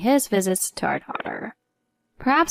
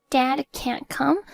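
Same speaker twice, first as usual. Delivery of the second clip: lightly voiced worried boy, higher and slow; young son; 7 semitones higher, slower than usual. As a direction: comfort mom gently as a little boy. Nine-year-old son comforts mother.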